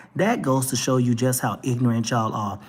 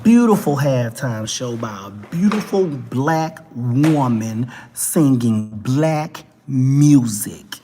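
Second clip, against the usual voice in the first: loud, slow, every word savoured; proud proclamation; 6 dB louder, slower than usual. Real, not acted. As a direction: announce it proudly like a tribute. Proud proclamation after pause.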